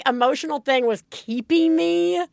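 high, laughing exasperation at herself; giggly mock pep talk to herself; laughing self-quote. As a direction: toss it off, half laughing at your own silliness. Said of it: "I'm like".

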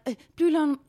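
high-pitched halting French plea; pleading in French. Retold or imitated. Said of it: "and I'm like".

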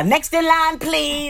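high, curt counter-clerk voice; clipped snippy cashier. Retold or imitated. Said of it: "I even threw in an extra line".

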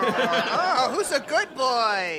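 slow sing-song pet praise; vet talking to pet. Acted. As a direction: coo at him like a dog. Praising a blindfolded teammate like pet.

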